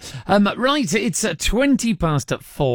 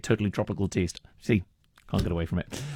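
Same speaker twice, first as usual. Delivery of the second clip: hint of a mock Jamaican accent; lightly voiced Jamaican ad jingle; bad Jamaican accent; 9 semitones lower, 8 dB quieter than usual. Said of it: "stuck in your head when you say it".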